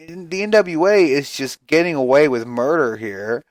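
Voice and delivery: usual speaking voice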